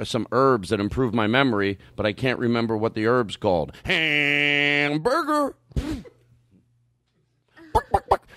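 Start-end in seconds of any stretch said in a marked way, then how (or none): 3.9-5.6 comedian catchphrase. Acted. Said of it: "it's his catchphrase". 7.7-8.3 high clucking hen; chicken clucking. Acted. Chicken imitation.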